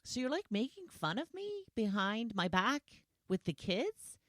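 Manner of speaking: mildly upset. Retold or imitated. Husband confronting wife about the kids' bet, mildly upset. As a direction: act out a touchy husband's protest. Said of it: "he starts to get upset".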